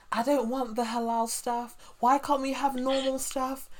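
mock her fussy outrage about the food; mocking a complaining woman. Imitating a woman on the news demanding normal food instead of halal, high and whiny. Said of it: "this white woman was like".

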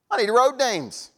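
exasperated. Acted. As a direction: drag it out in disbelief. Exasperated after vague directions.

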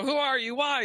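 high-pitched amateur character voice; Deadpool voice. Retold or imitated. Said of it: "and he's like".

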